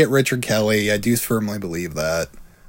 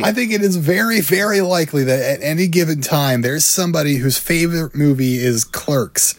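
mock Kevin Smith; 3 semitones higher than usual. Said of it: "You're Kevin Smith".

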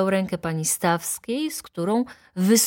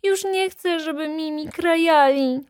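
put-on much higher pleading little-girl voice; crying little girl; 11 semitones higher than usual. A narrator's reading. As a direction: plead to mama like a distressed child. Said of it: "Nie płacz, Heluniu".

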